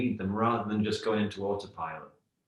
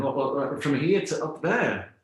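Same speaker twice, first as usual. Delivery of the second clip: higher-pitched, disbelieving question, stretched at the end; mildly incredulous frog; 4 semitones higher, 4 dB louder than usual. Acted. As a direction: act out a baffled little query. Well frog struggles to grasp vastness.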